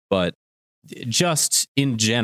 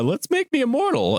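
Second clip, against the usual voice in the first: mock Vegeta plea; 12 semitones higher than usual. Mocking Vegeta pleading.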